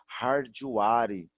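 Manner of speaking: hardware said as har-dju-a-ri with an extra vowel; imitating how some say hardware; imitating a mispronunciation. Teacher imitating others' mistake for students. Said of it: "como eu já ouvi".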